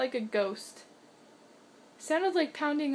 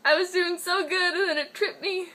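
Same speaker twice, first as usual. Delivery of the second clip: cat's frustrated voice; 4 semitones higher, 7 dB louder than usual. Retold or imitated. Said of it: "She's like".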